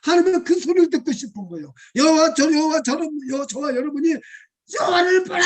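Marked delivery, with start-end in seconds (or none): 4.8-5.4 high, louder cry; loud preacher's cry; shouted proclamation. Shown as a demonstration. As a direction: call it out boldly. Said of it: "하는, 외치기를".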